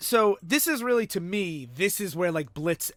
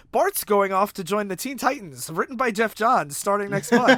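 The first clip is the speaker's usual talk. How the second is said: lightly hammed-up plug, raised voice; mock announcer's upbeat recap; mock promo; 3 semitones higher, 4 dB louder than usual. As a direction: read it like a cheesy teaser. Mocks recap as advertisement for comics.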